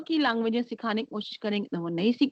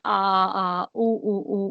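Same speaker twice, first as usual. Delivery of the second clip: drawn-out vowel coos, lightly imitated; imitated baby cooing; 3 semitones lower, much slower than usual. Shown as a demonstration. Teacher showing sounds of two-to-four-month-old babies, imitated cooing. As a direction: demonstrate an infant's first vowel sounds, evenly. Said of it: "थोड़ा अलग तरह की आवाजें निकालना".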